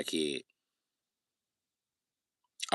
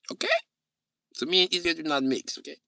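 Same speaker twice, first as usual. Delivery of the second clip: put-on high-pitched German-accented insistence; mock German accent; 9 semitones higher than usual. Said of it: "Why are you doing the German accent".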